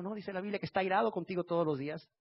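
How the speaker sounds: usual speaking voice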